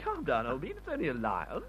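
low, soft reassurance; calming reassurance. Acted. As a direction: play down the danger to a jumpy friend. Soothing a frightened companion.

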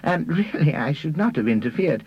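high-pitched, hesitant self-excusing character voice; apologetic. A narrator's reading. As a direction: excuse yourself in a high voice, drawing out the end. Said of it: "he said apologetically".

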